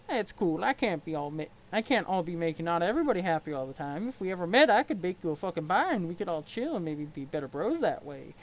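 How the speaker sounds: easygoing troll, loose and friendly; a lightly voiced laid-back troll; mellow clown troll. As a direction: chill like nothing bothers you. Gamzee troll voice.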